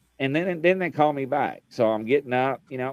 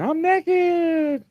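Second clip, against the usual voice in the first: much higher, squeaky mock blurt of "naked"; startled blurt. What callers heard him blurt, squeaky much higher blurt. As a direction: squeak it out in flustered panic. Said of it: "the people on the phone were like".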